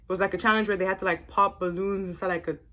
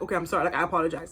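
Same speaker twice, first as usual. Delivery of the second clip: low, half-hearted apology; Andy; 5 semitones lower, 4 dB quieter, much faster than usual. Retold or imitated. Vlogger mimicking his apology to Isaiah, insincere. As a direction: imitate a sorry that isn't meant. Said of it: "That's what Andy sounded like".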